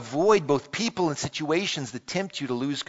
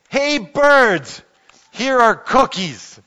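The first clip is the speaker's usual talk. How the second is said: much higher, louder call to the birds; loud shout; 9 semitones higher, 10 dB louder, much slower than usual. Acted. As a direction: shout out across the yard. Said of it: "He shouted in a large, loud voice".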